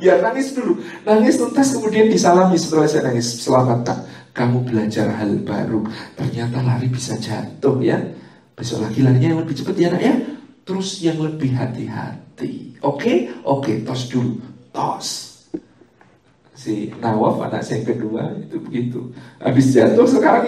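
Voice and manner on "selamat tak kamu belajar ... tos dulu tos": encouraging parent. Retold or imitated. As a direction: cheer the kid up gently. Parent praising fallen child.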